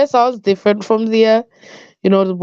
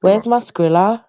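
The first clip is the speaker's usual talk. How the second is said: Skrilla in a put-on accent; lightly accented, questioning lift at the end; 3 semitones lower than usual. Shown as a demonstration. Showing a critic the word on request, put-on accent. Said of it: "Say Skrilla".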